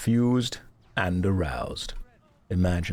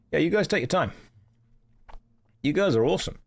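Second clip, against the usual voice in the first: reassuring; 7 semitones higher, faster than usual. Real, not acted. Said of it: "talking to guildmates".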